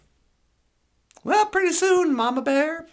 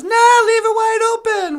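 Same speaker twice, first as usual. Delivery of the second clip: higher, louder, breezy dismissal; Papa Bear; 7 semitones higher, 8 dB louder than usual. Acted. Papa Bear telling Mama Bear not to lock up, loud and dismissive. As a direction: wave off the question loudly. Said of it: "Papa Bear says".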